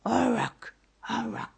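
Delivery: half-hearted copy of an owl screech; imitated owl cry. A narrator's reading. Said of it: "s'amusa à l'imiter". (cri de hibou imité)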